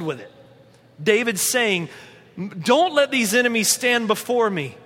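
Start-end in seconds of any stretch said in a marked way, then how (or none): 2.6-4.8 raised, louder pleading prayer; imploring David. Retold or imitated. David pleading with God against his enemies, imploring. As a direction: beg God to stand up for you. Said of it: "imploring this".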